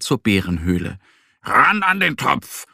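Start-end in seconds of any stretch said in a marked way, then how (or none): 1.4-2.7 rally your friend to the pot; eager call. A narrator's reading. Little bear Mo calling out eagerly. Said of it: "ruft Mo".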